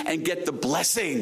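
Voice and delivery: "blessing" punched as the key word; stress on blessing. Real, not acted. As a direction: lean hard on "blessing" at the end. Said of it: "that's the real emphasis".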